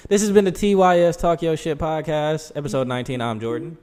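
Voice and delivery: infomercial announcer voice; over eager infomercial. Pretend. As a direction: OxyClean ad pitch voice. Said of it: "My OxyClean voice".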